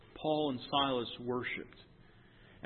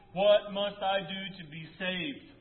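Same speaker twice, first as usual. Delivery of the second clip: louder, slow, pleading question; pleading cry; 5 semitones higher, 6 dB louder, slower than usual. Acted. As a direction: drag the plea out, pressing each word. Jailer's plea, preached aloud.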